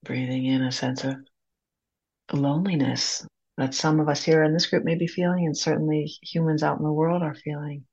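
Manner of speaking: unhurried guided breathing, long pauses between phrases; calm meditation guide, leaving room to breathe. Acted. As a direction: lead a group gently through each breath.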